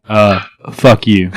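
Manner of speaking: loud. Pretend. Echoing the mock taunt.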